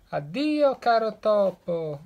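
high, loud panicked goodbye; loud fleeing fox cry; breathless farewell. Acted. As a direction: blurt it out in one breath. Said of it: "d'un fiato esclamò".

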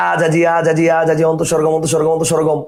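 mock rote recitation on a level tune; rote memorising. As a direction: imitate a student mindlessly parroting. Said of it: "আপনি যদি ঠাডা মুখস্থ করেন".

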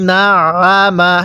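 না আ মা with the middle আ squeezed in the throat; throat-pressed ain. Shown as a demonstration. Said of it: "গলার মধ্যে চাপ দিয়ে পড়তে হবে".

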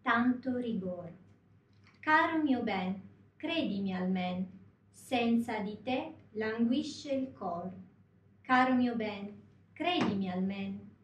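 slow, measured Italian recitation; poem recitation. Shown as a demonstration. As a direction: recite the Italian lyrics slowly, phrase by phrase. (イタリア語の歌詞をゆっくり朗読)

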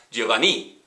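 "Giovanni" with the stress on the final "ni"; wrong stress. Shown as a demonstration. Teacher showing students a wrong stress, "Giovanni" hit at the end. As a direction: push the last syllable of "Giovanni". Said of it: "so they know it's not".

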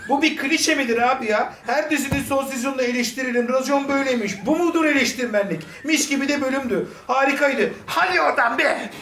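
high, indignant grasshopper voice; high squeaky rant. Acted. Ranting at critics as the viewer, high and squeaky. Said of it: "Bu ses tonu ne? Çocuk niye çekirge gibi?".

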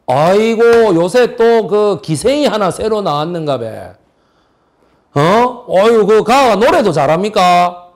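Gyeongsang accent, mildly hammed-up; mock Gyeongsang dialect. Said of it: "경상도 사람이 모양이죠".

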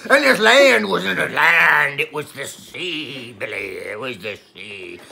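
lightly voiced old sea captain spinning a yarn; a hint of a salty pirate telling a tall tale; pirate storyteller. Pirate Paul tells Billy his Godzilla story, lightly pirate-voiced. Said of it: "the pirate is back".

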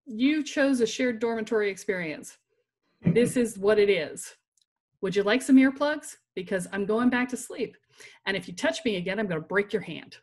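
an angry midnight threat, half-laughing at it; pissed-off retort. Retold or imitated. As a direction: set her straight, angry and loud. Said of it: "I was pissed".

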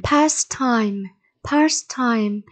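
"Pastime" stressed on PAS; stress on first syllable. Shown as a demonstration. Teacher modelling vocabulary for pupils, "Pastime" stressed up front. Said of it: "nhấn âm tiết số một".

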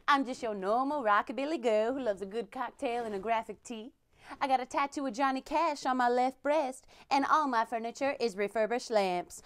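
usual speaking voice

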